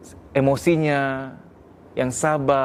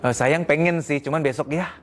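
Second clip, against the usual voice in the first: gentle refusal. Shown as a demonstration. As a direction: let him down sweetly, rising "ya". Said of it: "Sebenarnya istri tuh ngomongnya begini".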